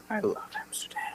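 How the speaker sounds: hushed whisper to himself. Acted. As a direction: breathe it as a secret. Whispered aside.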